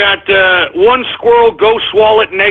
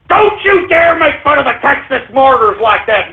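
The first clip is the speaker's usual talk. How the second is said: raised-pitch outraged reprimand; indignant warning; 5 semitones higher than usual. Real, not acted. Host defending Texas martyrs from mockery, indignant warning. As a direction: warn them off, pitched high and offended.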